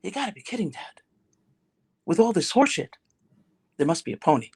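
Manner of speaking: utter sincerity. Acted. Cheerful son looking up at his dad, utterly sincere. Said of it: "with all the sincerity in the world".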